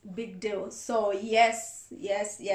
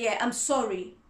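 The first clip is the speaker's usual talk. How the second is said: careless apology; 3 dB louder than usual. Shown as a demonstration. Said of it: "two different way of communication".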